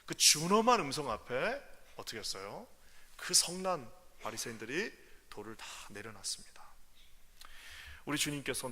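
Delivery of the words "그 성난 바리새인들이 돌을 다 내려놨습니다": hushed and soft; whisper. Real, not acted. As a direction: whisper the outcome. Whisper after climax.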